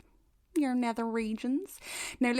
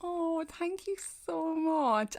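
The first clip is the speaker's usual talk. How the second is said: touched thanks; 6 semitones higher, slower than usual. Real, not acted. Thanking reviewer.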